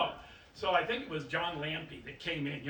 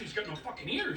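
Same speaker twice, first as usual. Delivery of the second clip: shouted punchline; 5 semitones higher, 3 dB quieter than usual. Retold or imitated. Punchline of the joke.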